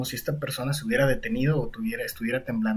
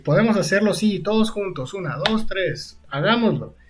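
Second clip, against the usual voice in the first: higher-pitched rallying chant; mock group call; 6 semitones higher than usual. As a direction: count everyone in, voice lifted. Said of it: "Entonces gritan todos al mismo tiempo".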